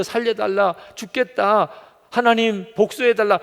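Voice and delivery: acted pleading, high and forceful; mock desperate plea. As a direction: imitate someone begging insistently. Imitates desperate demanding prayers.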